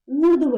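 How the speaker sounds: ऊर्ध्व repeated firmly, dh joined straight to v; correct pronunciation. Shown as a demonstration. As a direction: drive home oordhva with no vowel inside the dh-v cluster of ऊर्ध्व. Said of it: "क्या है?".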